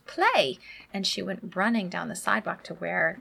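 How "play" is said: imitating toddler. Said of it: "she goes".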